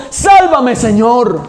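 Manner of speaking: grito agudo y fuerte; grítalo como quien se hunde; grito de auxilio. Retold or imitated. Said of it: "Qué gritó". (grito desesperado de Pedro)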